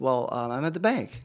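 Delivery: hesitant, drawn-in answer with an um; retold hesitant husband, fairly contained; hesitant reply. Husband answering his wife on the phone from the bank, hesitant.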